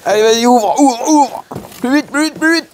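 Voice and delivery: high, pushy hurry-up calls; impatient urging. Real, not acted. Impatient friend urging him to open.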